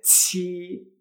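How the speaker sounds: "chi" with a burst of air; aspirated Mandarin "qi" for "chi"; explosive Chinese Q. Shown as a demonstration. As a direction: stretch "chi" after a hard puff. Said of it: "Esa explosión de aire".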